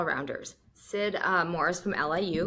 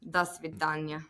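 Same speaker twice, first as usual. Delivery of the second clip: put-on Russian accent; 4 dB quieter than usual. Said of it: "I just turned Russian all of a sudden".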